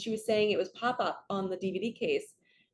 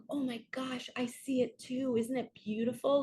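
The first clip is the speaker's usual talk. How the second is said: higher, delighted playing along with a child; playful wonder; 4 semitones higher than usual. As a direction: gush along with her make-believe. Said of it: "I would have played into it with her".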